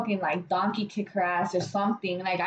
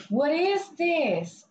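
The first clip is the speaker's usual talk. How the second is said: slow, higher mock bafflement; spaced-out customer; 5 semitones higher, much slower than usual. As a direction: imitate her, dragging every word. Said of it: "I don't know what she was off".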